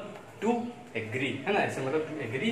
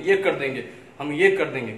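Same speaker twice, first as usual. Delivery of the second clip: louder, emphatic mimicry of a braggart; mock boasting; 6 dB louder, much faster than usual. Teacher imitating proud people in Bihar, mock boasting. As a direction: puff it up like an empty boast. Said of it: "जिसको घमंड होता है बहुत".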